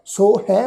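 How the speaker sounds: ਸੋ ਹੈ as two distinct words; pronunciation demo. Shown as a demonstration. Teacher shows the congregation the reading, ਸੋ ਹੈ distinctly said. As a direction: say ਸੋ ਹੈ clearly, with open "ai" on ਹੈ. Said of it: "ਪਾਠ ਹੈ ਜੀ".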